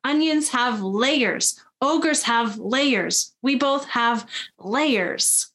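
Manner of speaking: lightly acted, slow and emphatic explanation; a hint of an insistent ogre, drawn-out words; Shrek. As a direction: spell it out slowly, leaning on "layers". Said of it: "And Shrek says".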